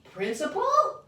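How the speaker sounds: very high, loud shocked question. Acted. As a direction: gasp out the word in shock. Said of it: "very shocked".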